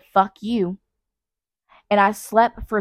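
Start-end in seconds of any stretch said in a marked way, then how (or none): 0.0-0.8 mock grumpy retort. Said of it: "I said".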